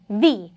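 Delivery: V sounded firmly and distinctly; pronunciation-teacher V; strong V sound. Shown as a demonstration. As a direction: demonstrate a strong, voiced V. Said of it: "with a strong V sound".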